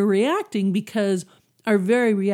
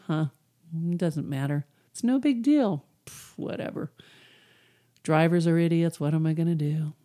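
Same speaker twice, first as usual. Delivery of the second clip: unbothered. Acted. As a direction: act out letting it go with a little puff. Acts out shrugging off a bad driver.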